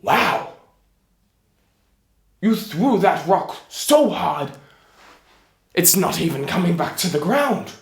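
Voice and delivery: loud, impressed giant voice; amazed giant. Acted. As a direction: play a simple giant marvelling at the throw. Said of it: "So, the giant, having seen this".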